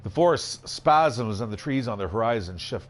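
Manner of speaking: lively, measured storybook reading; story narration. A narrator's reading. Game player reading card text to viewers, story narration. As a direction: narrate the adventure with drama.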